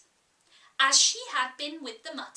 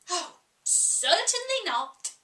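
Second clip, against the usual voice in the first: firm, clipped-off refusal with a lift; very decidedly; 4 semitones higher, 3 dB louder than usual. Acted. Red Queen firmly refusing Alice's offer, very decided. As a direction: refuse flatly, no room for argument. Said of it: "very decidedly".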